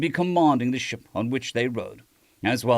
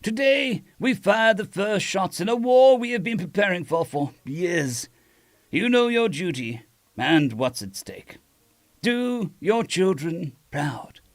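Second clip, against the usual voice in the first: firm, stirring speech to the troops; rally the fleet before battle; rousing address; 5 semitones higher than usual. Acted.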